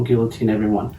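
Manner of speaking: lightly put-on French accent; mock French revolutionary slogan in a French accent. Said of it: "You just make a French accent".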